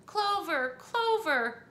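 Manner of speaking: high, loud frantic call; frantic cry. Acted. Missus Hipple seeing her daughter drown, frantic high cry. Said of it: "cried Missus Hipple".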